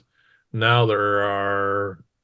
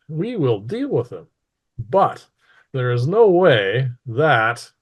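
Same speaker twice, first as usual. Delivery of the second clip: stern mistress. Acted. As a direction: weigh out each phrase as a ruler's warning. Mistress denounces the hidden enemy.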